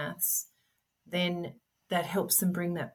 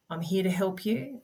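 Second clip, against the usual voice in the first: gentle, kind reassurance; soft reassurance; 3 semitones higher than usual. Shown as a demonstration. Parent showing how to reassure an upset child, softly. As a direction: offer help softly and calmly. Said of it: "soft, reassure them".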